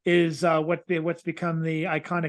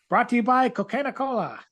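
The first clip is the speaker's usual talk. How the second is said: 1940s radio announcer; 5 semitones higher than usual. Acted. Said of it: "pre-politically correct public sports radio".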